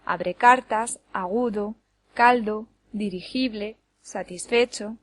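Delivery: each word from Abre cartas to satisfecho stressed second-last; stress on penultimate syllables. Shown as a demonstration. Teacher gives examples of llanas, Abre cartas to satisfecho stressed second-last. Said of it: "la sílaba tónica es la penúltima".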